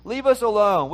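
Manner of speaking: scornful imitation of grumbling people; mocking complaint. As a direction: mimic them: Leave us alone. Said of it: "Isn't that a crazy statement?".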